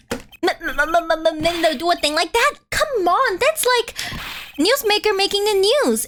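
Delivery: high, stammering panic; a nervous reporter squeaking out denials; flustered stammer. Acted. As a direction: stutter the denial in rising panic.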